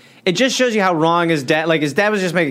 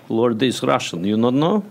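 put-on broken English in a light Russian accent; mock Russian accent. Russian God mocks Jeffrey's American picture of him, light Russian accent. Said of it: "I'm Russian".

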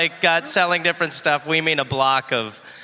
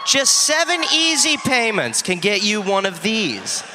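infomercial pitch; 5 semitones higher than usual. Pretend. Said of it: "like a talk show".

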